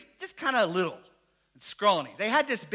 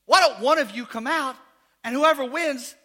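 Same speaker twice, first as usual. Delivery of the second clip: louder, lightly voiced boastful giant; a hint of a swaggering giant calling out; giant's challenge; 3 semitones higher, 7 dB louder than usual. Goliath challenging the army, lightly voiced loud dare. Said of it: "comes out from the lines and says".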